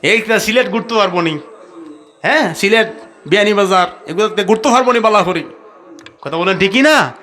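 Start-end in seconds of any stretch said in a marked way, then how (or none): 0.0-5.4 lively Sylheti-accented mock quote; Sylheti dialect. Daughter asking her father about a suitor, Sylheti dialect. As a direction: imitate a Sylheti speaker. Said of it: "এখন সিলেটি ভাষায় বলতে হয়".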